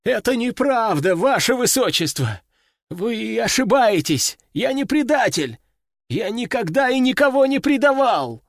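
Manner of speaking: high, frantic pleading; frightened pleading. A narrator's reading. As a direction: beg for your life in terror. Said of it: "Раздался испуганный голос".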